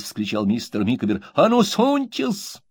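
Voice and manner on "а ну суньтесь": defiant shout. A narrator's reading. Micawber challenging Uriah.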